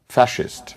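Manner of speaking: "ফ্যাসিস্ট" with a sh sound in the middle; original pronunciation. Shown as a demonstration. Panelist shows the original word, sh-sound in "ফ্যাসিস্ট". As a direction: say "ফ্যাসিস্ট" as fashist. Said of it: "এটার আসল উচ্চারণ হচ্ছে".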